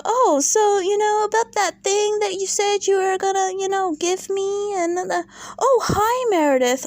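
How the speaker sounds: high, fast fumbling fake chatter; mocking the guy. Mocking the planted guy fumbling his cue with Lisa. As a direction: ham up a staged stumble. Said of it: "he comes over to Lisa".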